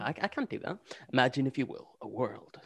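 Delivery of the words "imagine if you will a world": anthology show host narration. Answering a request to do the intro like Rod Serling: Rod Serling voice. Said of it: "Do it like Rod Serling from Twilight Zone".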